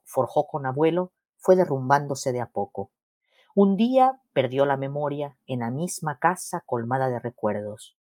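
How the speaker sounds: measured read-aloud with falling phrase ends; literary reading. Acted. Granddaughter reading her portrait of her grandmother, measured literary reading. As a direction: read your story in deliberate, separated phrases. Reads own story aloud.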